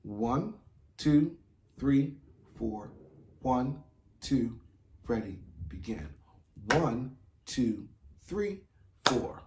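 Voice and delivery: steady count-in with a cue. Shown as a demonstration. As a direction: count them in evenly.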